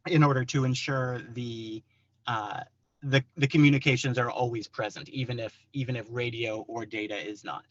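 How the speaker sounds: jittery and rushed from coffee; wired on caffeine, hurrying along; too much caffeine. Real, not acted. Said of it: "I'm a little jittery on coffee".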